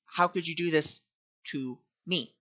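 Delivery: quiet reflective repeat. Shown as a demonstration. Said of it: "But notice".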